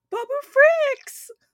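shrill, very loud, high-pitched full-on scream. Retelling how she reacted on seeing several of them, imitating someone screaming. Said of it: "she started screaming, like literally screaming".

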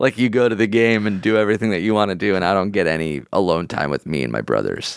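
normal talking voice

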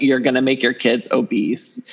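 ordinary talk, nothing marked

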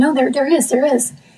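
pleading, begging tone, repeated insistently over and over. Retelling how they begged others for help for someone in danger, retelling pleading. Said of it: "I was just like pleading, like begging them to Help me".

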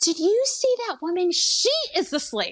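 piercing, very high, shrill screaming. Retelling how the speaker's mother screamed at him in the car, imitating her screaming. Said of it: "She starts screaming at him".

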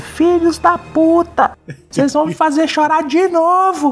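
mock shrill, high-pitched shouting outburst. Recounting watching the episode early in the morning, reenacting own shout. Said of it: "Eu gritando".

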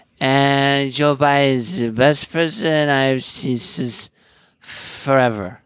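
slow, measured, deliberate, drawn-out politician-style delivery. Joking about a president: Nancy Pelosi impression. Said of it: "my Pelosi impression's any good".

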